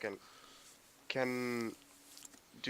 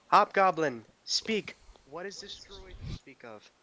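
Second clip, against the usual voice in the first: calling out in character; 6 semitones higher than usual. Acted. Adventurer demanding answers from the hobgoblin, calling out. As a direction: call out a demand to an enemy. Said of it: "like, call out".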